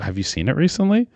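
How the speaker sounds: high, mock-polite chatbot question; imitating the AI assistant. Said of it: "she's asking me".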